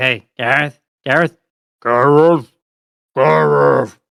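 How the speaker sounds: slow, drawn-out, stretched repeated calling. Voicing Jack as the player shrinks down: voice getting deeper. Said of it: "his voice is getting deeper as you shrink down".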